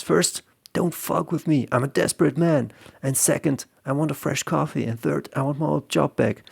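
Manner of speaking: a desperate man laying down terms; lightly voiced desperate hostage taker; desperate gunman. Desperate hostage taker making demands.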